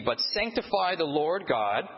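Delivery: each word of "But sanctify the Lord God" said slowly and clearly; slow recitation. Shown as a demonstration. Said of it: "Please repeat after me".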